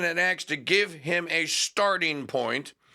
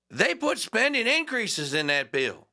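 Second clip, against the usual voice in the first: Massie impression; 7 semitones higher than usual. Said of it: "I'm trying to do my Massey accent".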